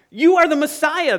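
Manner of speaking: loud, high, emphatic proclamation; ringing statement of belief; convinced declaration. Acted. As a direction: declare it boldly, owning every word. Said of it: "He believes".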